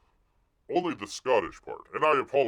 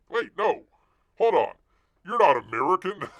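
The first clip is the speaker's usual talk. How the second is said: jumps up louder and higher to object; sudden protest; 9 semitones higher, 9 dB louder than usual. Real, not acted. Streamer catching a viewer's slip, loud sudden protest. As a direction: catch the mistake mid-read, wait, hold on.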